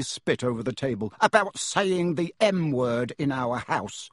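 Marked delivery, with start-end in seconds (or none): 1.2-4.1 slow, higher furious thunder; mild thunder. Acted. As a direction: uncle thunders across the table. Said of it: "thundered his uncle".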